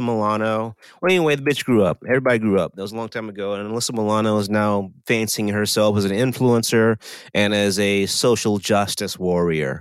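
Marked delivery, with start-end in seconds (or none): 5.1-9.8 audible air quotes. Real, not acted. Host doubting Alyssa Milano's activist titles, sarcastic air quotes. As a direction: put air quotes round each title, slowing down. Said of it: "Can you hear the air quotes in my voice?".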